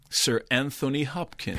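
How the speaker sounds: lightly mannered, drawn-out name; annoying catchphrase voice. Shown as a demonstration. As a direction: stretch the name a little theatrically. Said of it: "Mark's annoying way of saying".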